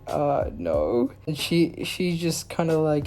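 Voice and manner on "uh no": low, hesitant retold answer; timid denial. Kid answering the robber, timid. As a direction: sink the voice on a meek denial.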